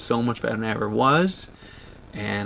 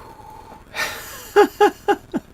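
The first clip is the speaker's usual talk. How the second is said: high laugh trailing down through tears; high teary laugh; 4 dB louder than usual. Real, not acted. Shaking off emotion on stream, high teary laugh.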